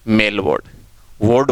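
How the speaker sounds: "वार्ड" with rounded aw, like "wawd"; correct ward vowel. Shown as a demonstration. Teacher giving hospital example, "वार्ड" with long aw. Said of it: "वार्ड बोलते हैं".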